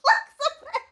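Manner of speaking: high laughing plea. Real, not acted. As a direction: laugh while asking. Laughing at autopsying a tree.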